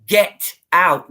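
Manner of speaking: a demon barking at her to leave; mock demon shout. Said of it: "This voice screamed".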